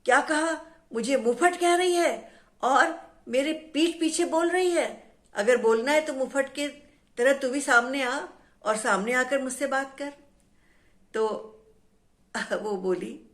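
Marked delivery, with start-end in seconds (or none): 0.1-10.1 angry shout. Acted. Tree yelling at the voice behind its back, indignant shout. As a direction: demand she show herself. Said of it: "पेड़ जोर से चिल्लाया".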